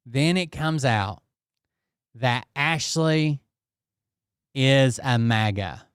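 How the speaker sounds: slow, with pauses before "maga"; dramatic slow reveal. Shown as a demonstration. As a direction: draw out "Then it comes out that Ashley is a maga" like a big reveal.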